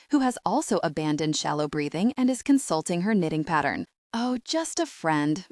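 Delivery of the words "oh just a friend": slow, breezy and offhand; said lightly. Acted. Becky brushing off her mum's question, lightly offhand. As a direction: brush it off lightly, as if it's nothing. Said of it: "I say lightly".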